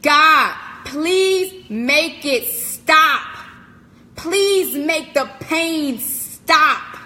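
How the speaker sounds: slow pleading cry to God; drawn-out anguished plea; retold desperate plea. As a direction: beg God slowly, desperate.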